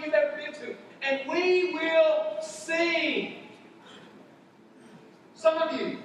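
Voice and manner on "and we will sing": each word stretched out slowly; slow and deliberate. Shown as a demonstration. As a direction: drag it out, word by word. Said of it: "let me say that again".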